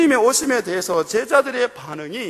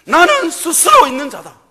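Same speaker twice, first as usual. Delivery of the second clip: God's voice; 6 semitones higher, 8 dB louder than usual. Acted. God declaring himself to Moses, loud and solemn. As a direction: proclaim it as God speaking.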